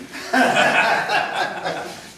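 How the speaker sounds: loud breathy burst of laughter; real laugh; hearty laugh. Real, not acted. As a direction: laugh hard at the joke. Punchline of elder's polite phrase.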